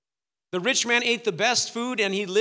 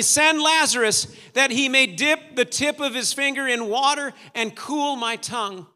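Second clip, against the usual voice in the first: raised, urgent pleading; crying out; 5 semitones higher, 5 dB louder than usual. Acted. Tormented rich man begging Abraham for water, crying out. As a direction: plead at a higher pitch, easing toward the end. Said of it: "he's crying out for mercy".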